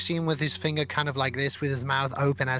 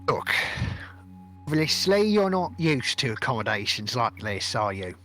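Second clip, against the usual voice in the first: curt, dismissive sea captain; grumpy captain. Acted. Captain brushing off the prince, grumpy and dismissive. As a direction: talk down to the prince like a cranky captain.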